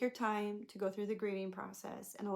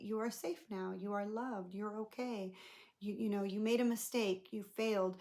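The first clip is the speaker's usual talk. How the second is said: put-on soothing inner child; 3 dB quieter than usual.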